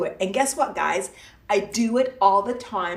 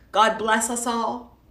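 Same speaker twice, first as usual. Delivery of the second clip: sarcastic. Acted. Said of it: "That's sarcastic, guys".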